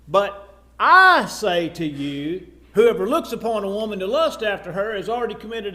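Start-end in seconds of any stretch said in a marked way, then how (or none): 0.1-2.5 "I" held long and hit loud; slow down and punch the word "I" with authority; stress on I. Retold or imitated. Jesus quoted claiming own authority.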